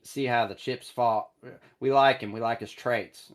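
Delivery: a slightly slowed, mildly put-on GM voice; retry the general manager, only a hint of character; better Ballard voice. Host retrying his Ballard take, a mild, slightly slowed imitation. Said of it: "that's kinda better".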